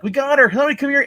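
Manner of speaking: very high and loud; a yelled call for help as he pins her; orderly shouting. Retold or imitated. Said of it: "The Orderly is like".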